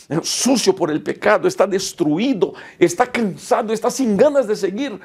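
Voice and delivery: high, urgent pulpit preaching; preacher rousing a discouraged congregation, high and urgent; preaching at full force. Acted. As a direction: lift them up from the pulpit.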